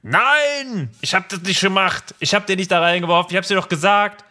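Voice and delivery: high, loud insistent denial; indignant protest. Retold or imitated. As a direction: protest your innocence, heated. Acting Harry's protest.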